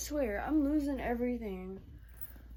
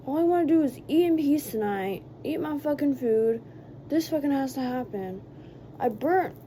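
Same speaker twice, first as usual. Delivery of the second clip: loud exasperated rant; frustrated rant; 3 semitones higher, 6 dB louder than usual. Real, not acted. Telling viewers about ruined late-night meal, loud frustrated rant. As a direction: vent loudly at the mess. Ranting after spilling noodles.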